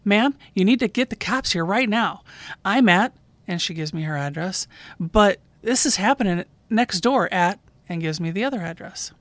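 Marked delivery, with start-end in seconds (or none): 0.0-3.1 urgent retold plea, a little louder; pressing, worked-up neighbor's voice, lightly acted; excited caller. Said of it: "The caller, very excited". 5.0-7.6 urgent retold plea, a little louder; pressing, worked-up neighbor's voice, lightly acted; excited caller. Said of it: "The caller, very excited".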